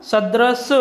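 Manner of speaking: सदृश said slowly, ending sharply on "drish"; correct form. Shown as a demonstration. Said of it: "शुद्ध रूप इसका". (शुद्ध रूप सदृश, अंत में य नहीं)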